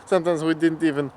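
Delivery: put-on light, jokey Russian accent in broken English; casual Russian accent held through the story; mock Russian accent. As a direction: keep chatting in a playful Russian accent. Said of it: "Back to my regular voice".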